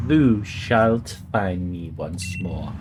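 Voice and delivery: slow, low, grand words of a god; solemn deity voice. Acted. Streamer voicing the game's deity, slow and solemn. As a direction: intone it like an ancient deity speaking. Reads deity dialogue aloud.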